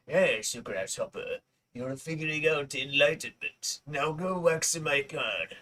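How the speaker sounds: hint of a Chinese accent as a wise master; mock Chinese accent. Mimicking Mr. Miyagi for his friend, light Chinese accent. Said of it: "not even a bad Chinese accent".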